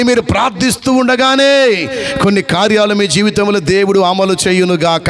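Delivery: driving, rhythmic declaration building in pitch; full-force preaching. Real, not acted. Preacher blesses congregation's lost prayer lives, full-force preaching. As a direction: proclaim a blessing in repeated rising waves.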